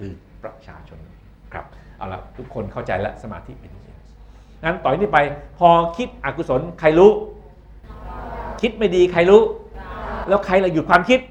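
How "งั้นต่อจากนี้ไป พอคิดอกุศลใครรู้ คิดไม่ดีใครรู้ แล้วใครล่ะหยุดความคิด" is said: loud, higher rhetorical questions; preacher-like challenge; rousing questions. Real, not acted. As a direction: jolt the sleepy class awake. Lecturer drills students with questions.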